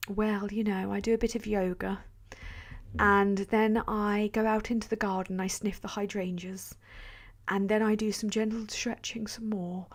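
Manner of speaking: lightly voiced Diana, gently dreamy; Princess Diana voice. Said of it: "why I sound like Princess Diana".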